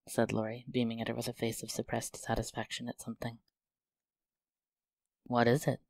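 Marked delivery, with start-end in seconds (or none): 5.2-5.8 eager surprised question; wondering cry. Acted. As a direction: ask in sudden wonder. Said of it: "cried Jo".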